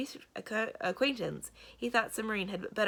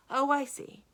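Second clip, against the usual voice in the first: higher, louder dawning understanding; sudden realisation; 7 semitones higher, 5 dB louder than usual. A narrator's reading. Samarine grasps Mendenbar's point, surprised realisation. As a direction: it clicks for her. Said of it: "in a very different tone".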